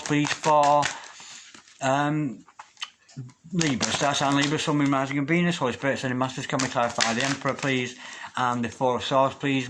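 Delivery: murmured prayer-like invocation to spirit guides. Acted. Tarot reader asks her spirit guides for clarity, prayer-like murmur.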